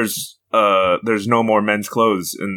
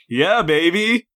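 high, campy British catchphrase; Austin Powers impression; 12 semitones higher, much slower than usual. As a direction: sing it out like a groovy spy.

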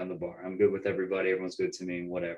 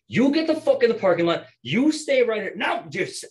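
loud, high bartender yell; re-enacted shouting, pitched way up; shouted orders; 8 dB louder than usual. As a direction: bellow orders to break up a fight. Breaking up a bar fight.

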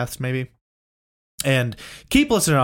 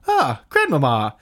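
slow resolving sigh; slower than usual. Retold or imitated. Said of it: "finally resolve it with".

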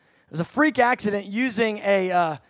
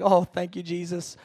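relieved sigh; 4 semitones lower, 4 dB quieter than usual. Retold or imitated. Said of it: "I was like".

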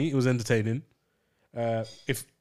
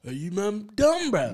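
imitating AJ; 7 semitones higher, 3 dB louder, slower than usual. Friends mimic AJ's outburst.

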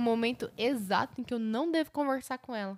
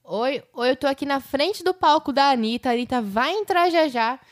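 higher-pitched on-air reporter pitch; excited live broadcast from the stage front, playfully put on; live festival reporter; 5 semitones higher, 4 dB louder than usual. Co-host imagining a Rock in Rio broadcast, mock live reporter. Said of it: "lá no Rock in Rio fazendo transmissão".

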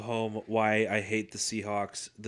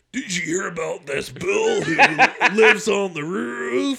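mock Bills fan; 10 semitones higher, 9 dB louder than usual. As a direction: ham up a gushing Bills fan, drawing it out. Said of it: "you'd be like".

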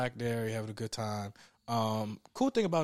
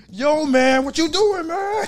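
much higher and louder, climbing panic; frantic yelling; 13 semitones higher, 10 dB louder, slower than usual. Retold or imitated. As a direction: friend trapped shouting at the driver. Friend yelling at locked window.

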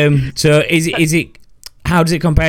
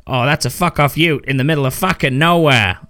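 put-on Australian accent; 4 semitones higher than usual. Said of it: "That's my Australian accent, terrible as it is".

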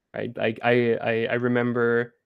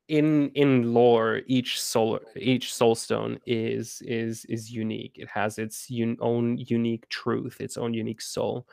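halting and slow, with repeated restarts; slow, careful explaining. Real, not acted. Game creator explains lore without spoilers, slow and careful. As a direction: pick through the words slowly. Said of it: "I'm talking incredibly slow".

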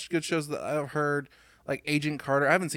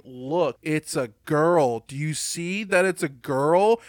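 slow, drawn-out mock announcement; lightly mocking, stretched-out showing off; mock pointing-out; 6 dB louder, slower than usual. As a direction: spell it out slowly, as if to a dim audience. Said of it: "pointing at you and going".

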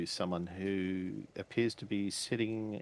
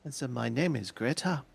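foreign woman voice; 5 semitones higher than usual. Acted. GM voices Greta.

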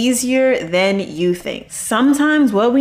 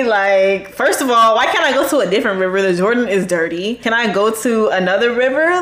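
indignant outburst; 3 semitones higher than usual. Retold or imitated. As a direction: play the offended leper who was promised a miracle. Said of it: "he was so mad".

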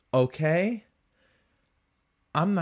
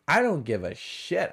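ordinary talk

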